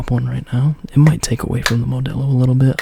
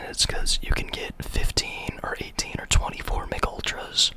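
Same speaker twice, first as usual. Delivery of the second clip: soft ASMR whisper; 9 dB quieter than usual. Real, not acted. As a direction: whisper close to the mic. Whispers throughout.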